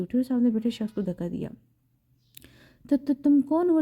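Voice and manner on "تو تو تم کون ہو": put-on high, startled question from a scared girl; stammered in fright; frightened. A narrator's reading. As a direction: ask it with fear rising. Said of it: "ڈرتی ہوئی پوچھنے لگی".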